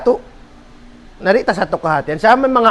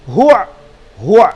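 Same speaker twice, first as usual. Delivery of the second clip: demonstrating a harsh sound; 3 dB louder than usual. Shown as a demonstration. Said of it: "Mabugat hadila pronounce-un".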